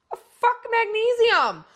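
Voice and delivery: high, loud, slow brush-off; scornful outburst. Real, not acted. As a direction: spit it out in disgust. Scornful retort to advice.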